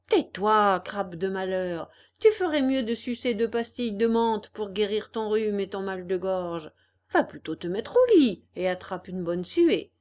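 insolent, rude retort. Acted. Puppet rudely answers the crab, mild insolence. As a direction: sneer it back at the crab. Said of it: "lui dit grossièrement".

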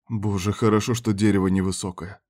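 usual speaking voice

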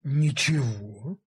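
a mild, even reply; calm. Acted. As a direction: answer calmly, giving nothing away. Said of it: "ответил я спокойно".

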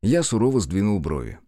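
usual speaking voice

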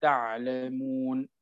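slow, تعلمون with a short madd on the و; short vowel length. Shown as a demonstration. Teacher showing the short pause reading of تعلمون, slow. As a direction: say تعلمون with a brief و before the stop. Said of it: "عند الوقف عليه شو نقولوا".

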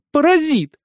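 high, outraged exclamation; furious insult. A narrator's reading. Witch swinging at the boy, outraged insult. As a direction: hurl the insult at him.

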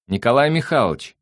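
high, loud greeting by name; calling out. A narrator's reading. The housekeeper hails Nick from the counter, calling out high. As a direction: hail him from across the room.

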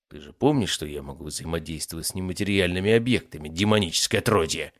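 controlled, cold menace; cold threat. Acted. Master warns the demon in his grip, cold. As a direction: say it coldly, in your own register. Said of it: "холодно произнёс я".

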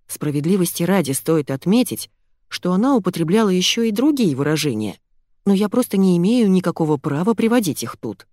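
plain reading voice

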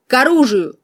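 magically amplified shout. A narrator's reading. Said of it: "Магически усиленный ... словно из громкоговорителя".

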